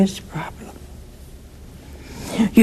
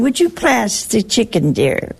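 mock polite request. Speaker mocks the polite way at table, lightly prim. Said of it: "they don't think of saying".

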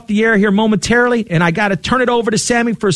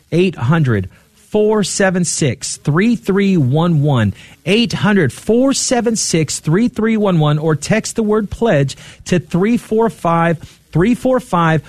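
slow, deliberate phone-number read; nice and slow; 2 semitones lower, slower than usual. Real, not acted. Host giving listeners the pledge number, nice and slow. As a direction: read the number slowly, digit by digit. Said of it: "give that number out nice and slow".

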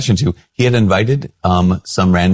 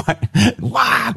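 exasperated why. Retold or imitated. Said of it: "And I was angry".

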